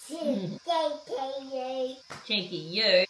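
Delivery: high, slow teasing back and forth; playful teasing. Real, not acted. Teasing game with toddler.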